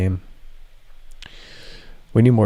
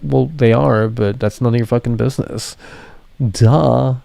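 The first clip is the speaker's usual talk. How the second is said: sassy comeback; 4 semitones higher than usual. Retold or imitated. Streamer answering the EA accusation with a sassy comeback. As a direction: toss it back with mock sass. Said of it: "And it's like".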